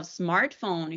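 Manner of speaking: "smartphone" said the English way; English pronunciation of "smartphone"; English accent. Shown as a demonstration. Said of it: "English words with the English accent".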